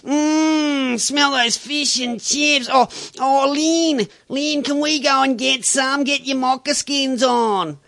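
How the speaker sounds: a hammed-up dreamy suburbanite; howso voice. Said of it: "you've got the howsos".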